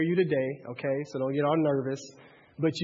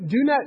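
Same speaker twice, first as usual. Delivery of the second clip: "do not" with "not" hit higher and louder; stress on NOT; 8 semitones higher, 7 dB louder than usual. Shown as a demonstration. Preacher stops to stress the command, with "not" pushed. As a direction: punch "not" hard. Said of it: "but notice he said".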